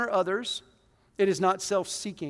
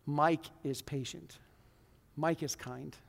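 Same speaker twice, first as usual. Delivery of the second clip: softer, slow personal reading; soft reflective reading; 4 semitones lower, 7 dB quieter than usual. Shown as a demonstration. Pastor inserting his own name into the verse, softly. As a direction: read it quietly about yourself. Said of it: "I put my name in".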